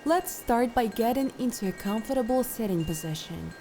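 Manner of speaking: calm, unhurried instructions with long pauses; guided meditation. Acted. Meditation guide settling listeners into posture and breath, calm guided meditation. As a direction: lead them gently through settling and breathing.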